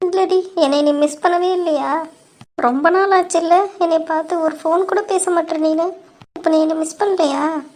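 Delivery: high-pitched, tearful reproach. Acted. Elder sister asking whether she was missed, tearful. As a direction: ask as if close to tears, pitched high. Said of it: "ஏன்க்கா அழுவுற?".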